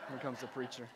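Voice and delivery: low, hushed remark to a helper; dismissive aside. Retold or imitated. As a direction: imitate a neighbor's muted warning. Neighbor's aside to his helper, repeated.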